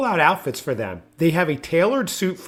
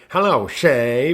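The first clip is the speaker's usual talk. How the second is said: uncommitted attempt; 2 semitones lower, much slower than usual. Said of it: "but he wouldn't commit".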